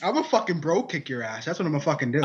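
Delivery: Joker impression.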